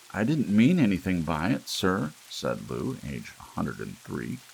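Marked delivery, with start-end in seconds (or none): 0.1-2.1 placating apology. A narrator's reading. Lou apologizing to Gramps.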